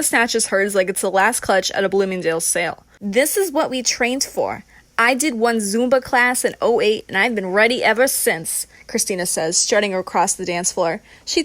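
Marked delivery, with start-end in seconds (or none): 3.0-8.7 lightly voiced cocky performer; a touch of theatrical bravado; brash showboat. Christina boasts of her Zumba training, brash.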